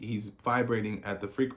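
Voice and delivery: hiccups breaking the words; talking through hiccups. Real, not acted. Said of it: "Pardon my hiccups".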